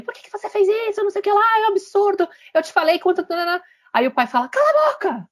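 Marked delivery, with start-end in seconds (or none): 0.0-3.2 high, squeaky scolding mother voice; a parody of a mom chewing out her son; mock mother yelling. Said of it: "a mãe tá lá gritando com ele". 4.5-5.3 sudden high outburst, cut her off; father shouting down his wife for the first time; father snapping. Retold or imitated. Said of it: "Pela primeira vez o pai fala".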